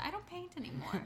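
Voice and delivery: high, soft movie-quote voice; small, high imitation of a film line; quoted film heroine. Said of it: "I love when she says it".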